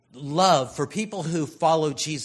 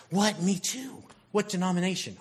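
excited; 5 semitones higher than usual. Acted. Excited believer questioning a stranger.

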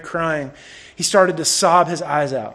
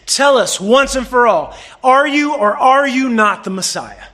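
raised, louder challenge as the high priest; acted demanding interrogation; 5 semitones higher, 3 dB louder than usual. High priest questioning the beaten prisoner Jesus, demanding. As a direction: press hard for an answer, pitched up.

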